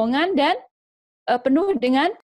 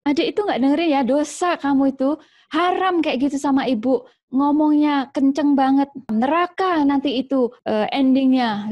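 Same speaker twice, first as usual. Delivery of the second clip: lightly voiced, higher moralizing mom; preachy mother; 4 semitones higher than usual. Mother preaching about sin to her child, mild mock sermon. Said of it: "khotbah gitu".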